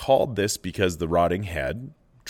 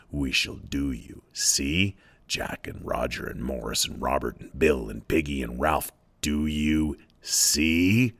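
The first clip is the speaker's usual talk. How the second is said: threatening pig's head; 3 semitones lower than usual. Acted. Lord of the Flies threatens Simon.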